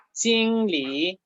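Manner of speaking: JINGLI level, then dipping and rising; first plus second tone. Shown as a demonstration. Teacher modelling for students, JINGLI level then rising. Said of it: "primer tono más segundo tono".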